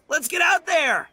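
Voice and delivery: rallying shout. Acted. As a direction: fire everyone up. Itto rallies them to go.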